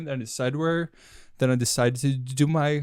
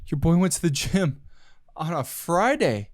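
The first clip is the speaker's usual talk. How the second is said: lightly done comedian swagger, slowing on Friday; a mild take on a cocky stand-up bit; a hint of Chris D'Elia strutting; Chris D'Elia impression. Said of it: "let me do my best Chris D'Elia impression".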